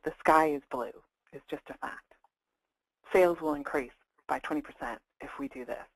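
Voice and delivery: even and unexcited; no excitement, just state it; neutral statement of fact. Shown as a demonstration. Coach demonstrating the voice of power, neutral and factual. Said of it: "Just state it like a fact".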